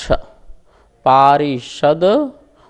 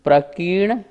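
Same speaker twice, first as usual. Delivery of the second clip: प्रकीर्ण as one piece, stopping after ण; break after NA; 4 semitones higher than usual. Shown as a demonstration. Teacher shows how far to read, deliberate break. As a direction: rise on प्रकीर्ण, then stop. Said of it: "ना तक बोलिए".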